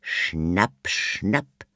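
lightly voiced playful snap-snap, rising; grinning. A narrator's reading. The butler mocks the police with a grin. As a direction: tease like a shark. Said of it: "sagte der Butler grinsend".

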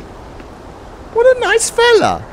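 very high, slow squeaky coo; gushing approval. Pretend. Gamer admiring the man who offers shelter, high coo. Gushing over kind game character.

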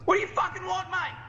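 mock panic. Mock Aussie reply in game.

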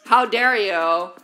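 slow, hammed-up offended diva; milk the fake offence, dragging each word; playfully scolding chat for an insult, mock outraged; mock outrage.

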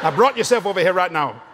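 lightly imitated Cajun accent; a hint of Cajun father talk; Cajun dad. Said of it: "That's a Cajun".

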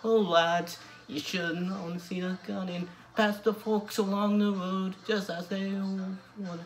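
sung in an attempted Newcastle Geordie accent. Vlogger covering Blaydon Races for his viewers, sung in a Geordie accent. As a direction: sing the folk song with a Geordie lilt, doing your best. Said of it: "I'll be trying this one in a Newcastle Geordie accent".

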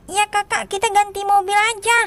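lightly voiced little sibling; Mio. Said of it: "Aduh, Mio, gimana ini".

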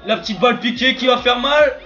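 high, loud commentary yell; excited shout. Real, not acted. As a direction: call the chip at full volume. Shouting play-by-play on a chip shot.

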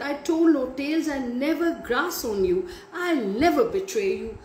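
high, quick desperate plea; frightened pleading. A narrator's reading. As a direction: beg him to believe her. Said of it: "Nancy's frightened voice".

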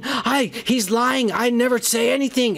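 high-pitched mock pleading; imitated begging. Johnny Storm denies it to Cassandra, mock begging. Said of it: "Chris Evans is begging".

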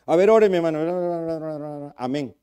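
soft, slow, mock careless prayer; indifferent prayer. Shown as a demonstration. Preacher mocking a bored believer praying, soft and lazy. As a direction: mumble it like you don't care. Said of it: "podemos orar de manera indiferente".

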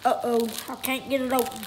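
barely able to talk, mouth full. Real, not acted. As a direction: mouth stuffed with candy. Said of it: "I can't even hardly talk".

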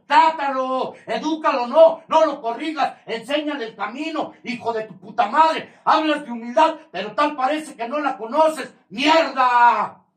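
high, loud scolding all through; furious tirade. Real, not acted. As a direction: tear into them, rising fury. Angry tirade at family. (regaño furioso, agudo y fuerte)

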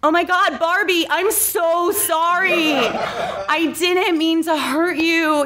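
high, slow apology breaking into giggles; a sorry Ken voice lost in laughter; genuine apology. Acted. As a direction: try to apologize but keep cracking up. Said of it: "he genuinely atones".

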